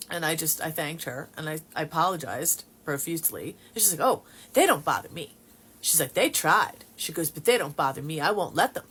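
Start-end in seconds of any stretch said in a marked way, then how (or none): 4.1-5.4 put-on Texas accent. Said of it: "she's saying it in her Texas accent". 6.1-6.8 put-on Texas accent. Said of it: "she's saying it in her Texas accent". 7.3-8.8 put-on Texas accent. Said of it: "she's saying it in her Texas accent".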